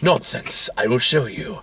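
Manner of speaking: airy, hushed mock of David; lightly put-on insistent android; quoting David. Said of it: "He's like".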